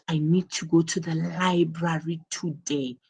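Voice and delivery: "library today" spelt out with deliberate weight; stress on today. Shown as a demonstration. Teacher demonstrating emphasis to class, stress on "today". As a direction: lean on "today" as the key word. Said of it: "the emphasis is on today".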